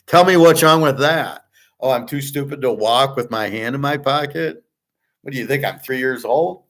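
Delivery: indignant mock disbelief; indignant retort. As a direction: retell it as an offended, incredulous retort. Retells his indignant comeback.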